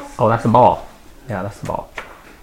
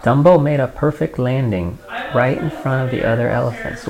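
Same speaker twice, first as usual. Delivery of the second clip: unhurried read-aloud with pauses between phrases; storybook reading; story narration; 3 semitones higher, 4 dB louder than usual. A narrator's reading. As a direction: read a picture book to a small child.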